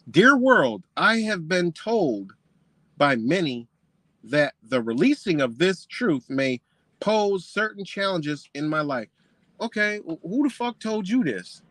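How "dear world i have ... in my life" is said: slow, deliberate reading aloud; stately quoted letter; measured book reading. Retold or imitated. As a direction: read it out slowly and formally, phrase by phrase. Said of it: "you about to sound this sophisticated".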